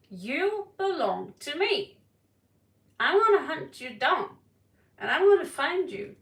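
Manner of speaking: loud, menacing hunter; menacing stalker voice. Acted. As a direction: threaten like an obsessed hunter. Voicing possessive stalker.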